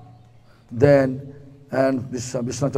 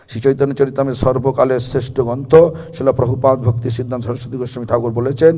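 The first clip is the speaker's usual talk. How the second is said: reading aloud; much faster than usual. Acted. Reads Bengali text quickly.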